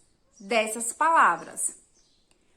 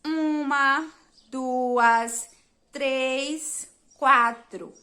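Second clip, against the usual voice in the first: counting aloud; 5 dB louder, much slower than usual. Shown as a demonstration. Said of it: "Vamos contar as letras".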